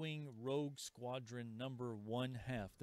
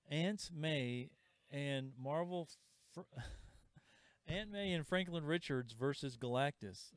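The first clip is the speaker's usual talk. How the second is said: laughing. Real, not acted. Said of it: "I'm laughing because I just found this book".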